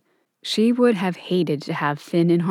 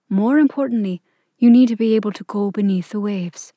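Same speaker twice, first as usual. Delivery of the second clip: a stately queen, calm and cool; cold sweet ancient calm. Acted. Queen advises Clover.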